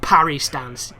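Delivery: loud, emphatic exasperation; real frustration. Real, not acted. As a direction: punch out each failed step in frustration. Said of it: "stuff that I find frustrating".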